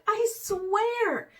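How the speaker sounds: high, quick swear; quick oath. A narrator's reading. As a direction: swear it fast. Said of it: "said Raven quickly".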